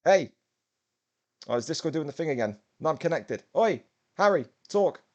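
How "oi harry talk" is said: loud call to wake up the co-host. Real, not acted. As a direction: shout across the room to get his attention. Calling a silent co-host.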